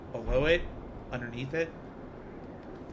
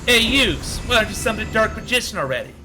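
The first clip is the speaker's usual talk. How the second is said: Yu-Gi-Oh Abridged voice; 7 semitones higher, 4 dB louder than usual. Retold or imitated. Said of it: "you recognize Yu-Gi-Oh! Abridged".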